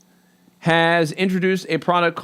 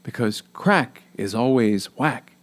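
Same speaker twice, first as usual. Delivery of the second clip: cheesy announcer voice. Pretend. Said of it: "like your cheesy announcer voice".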